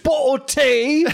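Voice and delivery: high, drawn-out hammed-up shout; mock British yelling. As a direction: imitate an over-the-top movie star bellowing British insults. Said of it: "when he starts yelling at the".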